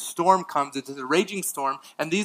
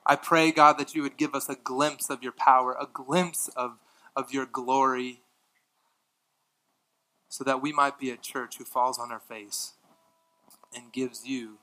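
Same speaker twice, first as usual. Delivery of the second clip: closing prayer. Real, not acted.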